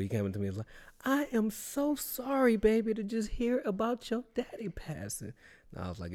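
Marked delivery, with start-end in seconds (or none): 1.0-5.3 imitating a sympathetic dude. Quoting the dude who consoled him, high sympathetic voice. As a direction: coo it out with exaggerated sympathy. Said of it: "homosexual dude".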